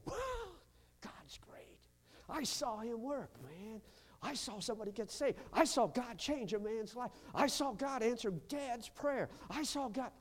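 high, eager testimony; light up as you tell what God did; starting in a hush, then rising with wonder; imagined joyful testimony. Retold or imitated. What young people should say.

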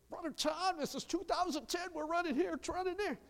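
high, whiny imitation of a busy parent; a lightly voiced put-upon church member; mock busy family excuse. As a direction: mimic the busy family brushing him off. Preacher mocks excuses of busy family.

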